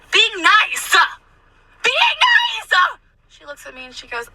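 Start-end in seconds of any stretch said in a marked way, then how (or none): 0.1-1.0 high, pushed mock-nice outburst; forced niceness. Server killing her with kindness, forced niceness. Forcing niceness at rude customer. 1.8-3.0 very high, drawn-out mock shriek; exasperated shriek. Server killing her with kindness, exasperated shriek. Forcing niceness, now shrieked.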